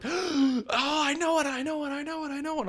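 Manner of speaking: high, excited repeated I know it; mock-gleeful guess; excited realization. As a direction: squeal it like you cracked the twist. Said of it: "you're like, gasps".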